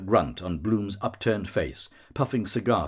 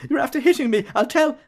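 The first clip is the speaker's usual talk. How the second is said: whimpering; 3 dB louder, faster than usual. A narrator's reading. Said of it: "Bloom whimpers".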